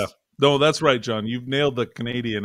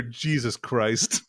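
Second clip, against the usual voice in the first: imitating Richard; much slower than usual. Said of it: "I just hear Richard in my ear".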